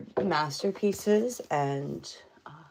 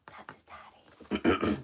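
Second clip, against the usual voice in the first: low whispered daddy voice; much slower than usual. Pretend. Joking about pet's namesake.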